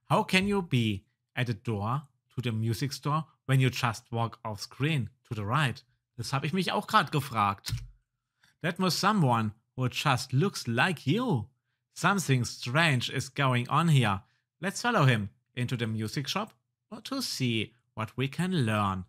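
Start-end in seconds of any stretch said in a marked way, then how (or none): 0.1-5.8 animated storyteller reading; game story narration. Acted. Reads game text aloud. 8.6-19.0 slow, deliberate storyteller; game story narration. Acted. Reads game text aloud.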